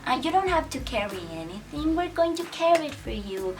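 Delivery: put-on high, eager little-boy voice; imitating sweet little boys. Campers begging their counselor Karen, high and eager. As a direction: play the ten-year-olds fussing over her, pitched high. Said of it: "they were like".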